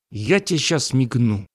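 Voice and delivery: mildly growled threat; barked threat. Acted. Mirror threatening creature K, barking. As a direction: snap it with restrained menace. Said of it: "рявкнуло зеркало созданию К".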